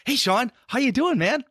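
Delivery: high, beaming and wide-eyed; big smile. Shown as a demonstration. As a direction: talk through a huge grin. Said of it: "Brett's eyes are real wide. He's got a big smile".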